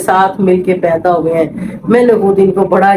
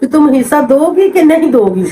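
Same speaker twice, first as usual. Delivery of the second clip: laughing disbelief; 5 semitones higher than usual. Retold or imitated. Retelling sister-in-law's demand, laughing.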